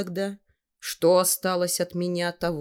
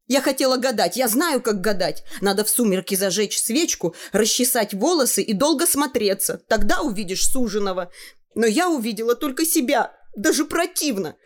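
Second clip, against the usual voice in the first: put-on girl's voice; 6 semitones higher than usual. Girl's monologue to mother.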